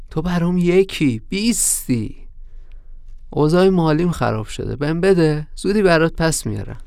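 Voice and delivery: mild coaxing plea. Acted. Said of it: "نرمتر گفت".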